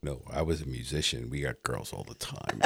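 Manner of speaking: soft, low deadpan brag; straight-faced. Real, not acted. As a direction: say it with a straight face. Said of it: "I actually said that with a straight face".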